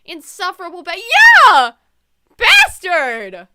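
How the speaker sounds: loud, hammed-up insult; angry outburst. Insulting insufferable Neil, hammed-up angry shout. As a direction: hurl it out in mock fury.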